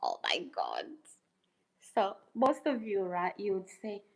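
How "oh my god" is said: breathy low whisper of oh my God; whispered aside. Real, not acted. Vlogger reacting to a chat comment, a hushed whisper. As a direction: mutter it under your breath.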